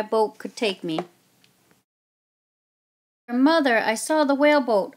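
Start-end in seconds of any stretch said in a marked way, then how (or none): 3.3-4.9 loud, higher excited call; boy calling out breathless news. Acted. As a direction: shout the news to Mother. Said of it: "I called out".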